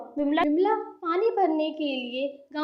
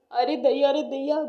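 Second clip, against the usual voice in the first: scolding exclamation in an even pitch; exasperated husband. Acted. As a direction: chide her in exasperation. Husband scolds his bald wife.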